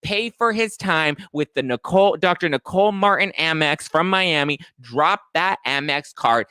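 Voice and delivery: high, loud sassy telling-off; ranting at a cast member in a mock angry voice; mock furious rant. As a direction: tear into her like a fed-up friend. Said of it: "It's like".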